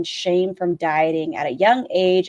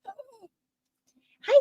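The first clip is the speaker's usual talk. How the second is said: much higher, bright greeting voice; sing-song greeting. Acted. Host greets a chatter named Sniper in a sing-song hello.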